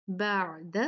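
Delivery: "बाद" as "ba'da" with a throaty, unbroken ain; careful "बाद", pharyngeal middle; clear ain. Shown as a demonstration. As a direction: hold the squeezed ain in "बाद". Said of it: "आइन बहुत वाज़े और सही".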